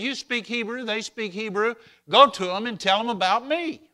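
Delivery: high, loud ringing command; preaching God's words. Acted. Preacher voicing God sending the prophet, loud and high. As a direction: proclaim it like a divine order.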